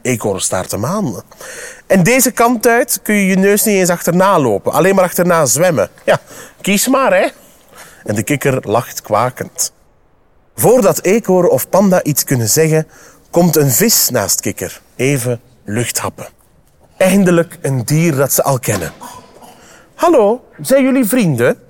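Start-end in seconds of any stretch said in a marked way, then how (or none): 1.9-7.3 lightly raised teasing creature voice; mocking frog. Frog teasing squirrel about the ways to go, lightly mocking. 20.0-21.6 high, friendly little fish voice; cheerful. A narrator's reading. Fish popping up beside frog to greet travellers, cheerful. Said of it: "vraagt hij vrolijk".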